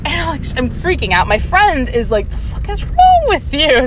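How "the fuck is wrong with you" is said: high-pitched incredulous scolding; mock-outraged, pitched way up; friend's retold outrage. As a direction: imitate a friend appalled at you. Friend berating her in the car.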